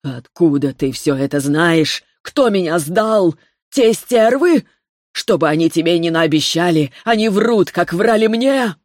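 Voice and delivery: frightened accusations spilling out; trembling voice. Acted. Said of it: "голос дрожал".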